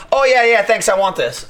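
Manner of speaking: lightly voiced coworker taking back his bag; mock eager coworker. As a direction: play the cheerful grab. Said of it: "He's like".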